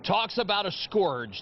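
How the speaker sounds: slow, hammed-up alarmist reporter; mock scary news report. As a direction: play up a fake menace, slowly. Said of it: "I'll pretend it's something very scary".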